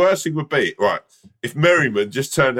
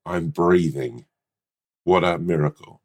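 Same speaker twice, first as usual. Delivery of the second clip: low, slow reverent guru voice; a hushed, awed wellness-guru intonation; mock guru; 6 semitones lower, slower than usual. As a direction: savour it like a spiritual teacher. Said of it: "Why do you have to say".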